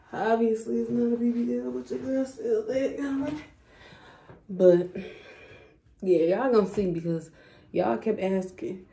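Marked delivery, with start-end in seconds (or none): 0.1-3.4 sassy retake. Shown as a demonstration. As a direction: redo it with sass, drawing out 'your girl still think'. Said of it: "Hold up".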